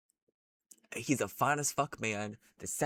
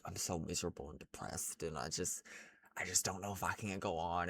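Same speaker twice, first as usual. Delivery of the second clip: mopey imitation; 4 semitones lower, 8 dB quieter, faster than usual. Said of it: "be like".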